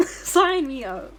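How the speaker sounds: laughing emphatic repeat. Shown as a demonstration. Streamer repeats joke about dating Kiryu, laughing and emphatic. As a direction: lean in and drag it out with a laugh.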